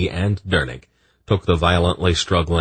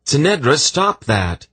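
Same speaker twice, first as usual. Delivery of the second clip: higher, louder call to stop; urgent command; 10 semitones higher, 3 dB louder than usual. A narrator's reading. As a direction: call her sharply. Garion trying to restrain queen.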